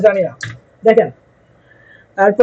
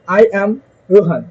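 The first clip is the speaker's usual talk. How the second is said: slow model answer. Shown as a demonstration. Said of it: "নিজের নাম বলেন জুড়ে জুড়ে দশ বার".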